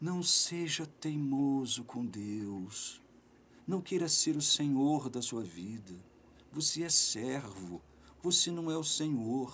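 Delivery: hushed, very quiet, soft-spoken delivery. Preaching to a listener called brother, speaking softly. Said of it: "estou falando baixinho".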